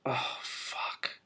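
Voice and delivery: soft breathy aside; whispered curse. Real, not acted. Reader aside to herself, hushed curse. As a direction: mutter it under your breath. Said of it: "reader's aside".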